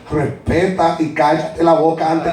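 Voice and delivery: a hint of a stern Puerto Rican mom; mother scolds son for talking back, lightly voiced; scolding mother. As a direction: lecture your son, then threaten him. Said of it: "That's my mother".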